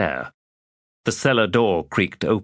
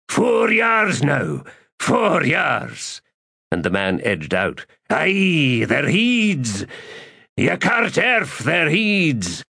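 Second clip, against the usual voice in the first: put-on slow, higher South Islander accent, nervous; a frightened innkeeper in a South Islander accent; 8 semitones higher, slower than usual. A narrator's reading. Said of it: "the accent South Islander".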